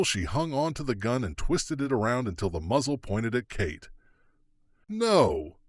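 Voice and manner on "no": shout. Acted. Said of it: "Kate shouted".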